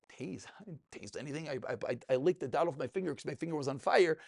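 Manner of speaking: soft, feigned innocence; quiet innocent denial. Retold or imitated. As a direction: play it down quietly. Acted defensive answer.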